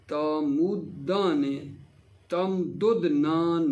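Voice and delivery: slow, deliberate paradigm with drawn-out syllables; conjugation drill recitation. Shown as a demonstration. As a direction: sound out each verb form carefully, pausing between. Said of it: "اگلا صیغہ جو ہے". (آہستہ آہستہ، کھینچ کر گردان پڑھنا)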